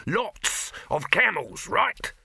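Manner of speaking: high, stretched-out exasperated shout. A narrator's reading. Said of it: "shouted Dibbler, waving his hands".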